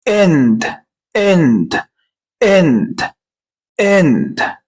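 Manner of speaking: إند said with a short open e, repeated four times; repeated short e in end; short e drill. Shown as a demonstration. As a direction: drill إند clearly as a phonics teacher. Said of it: "الكلمة التالتة".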